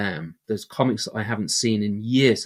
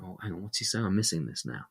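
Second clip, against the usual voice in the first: quiet; 2 semitones lower, 5 dB quieter than usual. Retold or imitated. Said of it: "You might get very, very quiet".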